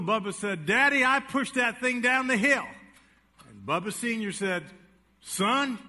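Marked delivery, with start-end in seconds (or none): 0.7-2.7 lightly voiced boy, higher; owning up bravely, a touch of a kid; a hint of a boy confessing. Little Bubba confessing to his daddy, lightly voiced boy. Son confesses to father in joke. 5.2-5.8 a hint of a scolding father, a bit louder; mock stern father. Father ordering his son to cut a switch, mock stern.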